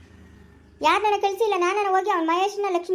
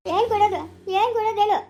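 raised, heated retort; indignant protest. Acted. Wife snapping back at her husband's suggestion to give the sisters a share, indignant. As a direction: fire it back in outrage.

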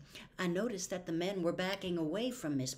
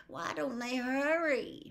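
higher, more urgent second ask; anxious repeat; 6 semitones higher than usual. A narrator's reading. Boy growing anxious as the fire spreads. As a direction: press the question harder, fretting. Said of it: "muttered Jem".

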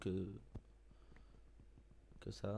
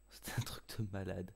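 whispering. Real, not acted. Amazed aside in game.

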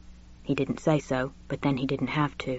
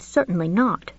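put-on lightly raised, fussy elderly gentleman; a genteel old professor gossiping, pitched up; Julian's voice; 4 semitones higher than usual. Narrator voices Julian confiding to Richard, genteel and high.

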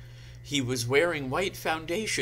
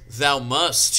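mock yell, loud and commanding; hammy villain's raised-voice order; Voldemort; 2 semitones higher, 7 dB louder than usual. A narrator's reading. Voldemort insisting to the heroine, yelling. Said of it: "he yelled".

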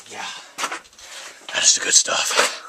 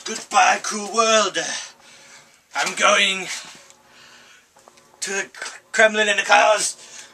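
a lightly put-on Russian soldier, lamenting his death; hammed-up deathbed lament in a mild Russian accent; dying Russian soldier.

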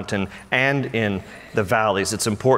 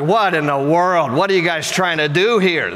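exasperated scolding; 5 semitones higher than usual. Acted. Imagined Jesus scolds bumbling disciples.

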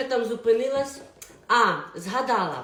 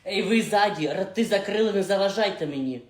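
raised voice, bossing the back rows; loud telling-off; 3 semitones lower, 4 dB louder than usual. Acted. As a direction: shut them up sharply.

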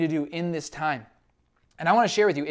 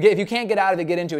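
louder, punchy restatement; louder second pass of the maxim; emphatic repeat; 7 dB louder, much faster than usual. Acted. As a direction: drive the point home. Repeating key phrase louder.

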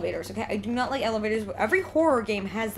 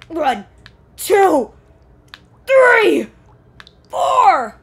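the count climbs higher and louder each number; building count; 8 semitones higher, 13 dB louder, much slower than usual. Real, not acted. Streamer counting the monkey's chin-ups, rising excited count. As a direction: count up, getting more excited.

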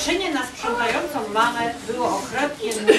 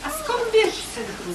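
gentle mother's question; 10 semitones higher than usual. A narrator's reading. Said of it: "zapytała mama".

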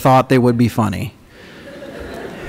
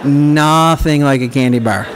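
laughing. Real, not acted. Laughing correction.

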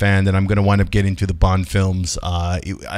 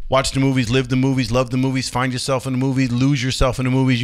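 higher, rhythmic signoff chant; reciting his speech; 4 semitones higher than usual. Shown as a demonstration. Closing the video for his fans, a rhythmic recited motto. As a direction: recite it like a catchphrase litany. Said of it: "You know the whole speech".

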